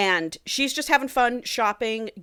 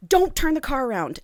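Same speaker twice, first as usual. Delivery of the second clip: retold counter-order; 5 semitones higher than usual. Acts out her counter-order to driver.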